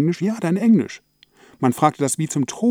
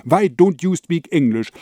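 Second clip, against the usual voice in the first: angry; 4 semitones higher than usual. Acted. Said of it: "rief sie wütend".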